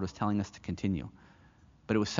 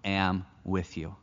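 God's voice; much slower than usual. Acted. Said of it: "and God says".

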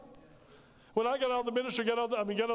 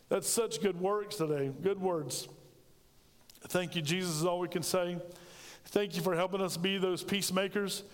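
closing prayer. Acted. Leads congregation in prayer.

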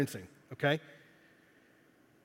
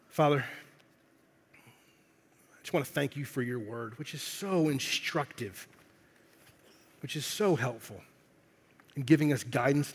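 prayer. Acted. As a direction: pray over the room gently. Leads a closing prayer.

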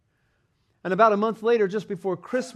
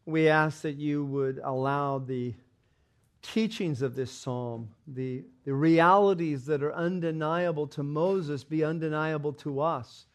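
prayer. Acted. Pastor leads congregation in reverent, slowed prayer. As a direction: pray gently to the Father.

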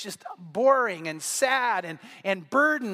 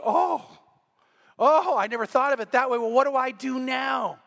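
surprised realisation; 3 semitones higher than usual. Retold or imitated. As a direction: act out a sudden, dismayed "oh". Acting out her sudden realisation.

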